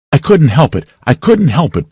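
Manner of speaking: high, moaning repetition of "couldn't". A narrator's reading. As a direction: moan "I couldn't help it" twice in despair. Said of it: "Potter moaned".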